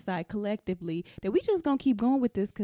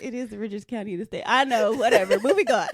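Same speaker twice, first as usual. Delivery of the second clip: laughing; 5 dB louder than usual. Real, not acted. Defending her county, laughing.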